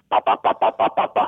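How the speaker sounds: lips popping out pa pa pa softly. Retold or imitated. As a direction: pop soft pa sounds with the lips. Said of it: "I'm hearing this".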